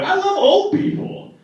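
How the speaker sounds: put-on I love old people, jumped up high and bright; high eager restart. Shown as a demonstration. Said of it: "That's a terrible segue".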